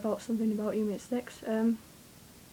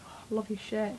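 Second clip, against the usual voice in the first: breathy whisper of a compliment; whispered quote; 6 dB quieter than usual. Retold or imitated. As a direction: whisper it shyly. Quoting herself to security girl.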